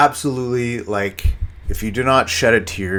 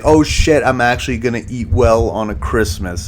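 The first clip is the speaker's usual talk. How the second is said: retold thrilled realization, higher and louder at first; excited reaction; 3 semitones higher, 6 dB louder than usual. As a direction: act out realizing your good luck.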